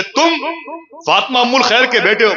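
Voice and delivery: high, excited questions one after another; a stranger's rising, excited questions; eager questioning. Acted. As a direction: ask it like you can hardly believe it.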